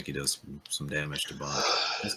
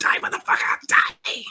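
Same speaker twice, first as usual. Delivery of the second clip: tiny demonic voice, very loud and breathy. Telling a story, a small creature with two swords attacks the king; little demony voice. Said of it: "It's a little demony voice".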